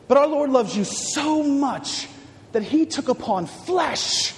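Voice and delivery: normal talking voice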